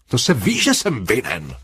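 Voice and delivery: high, eager cry of guilt; exclaiming. A narrator's reading. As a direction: blurt it out, a touch servile. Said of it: "vykřikl Parsons".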